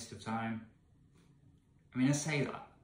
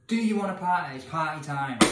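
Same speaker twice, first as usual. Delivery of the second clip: mock party cheer; 2 semitones higher, 6 dB louder than usual. Real, not acted. Mock celebration of finishing.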